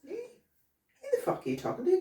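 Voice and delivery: a laughing, mock hard-man line; mock tough challenge, laughing. Shown as a demonstration. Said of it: "I wouldn't even do that".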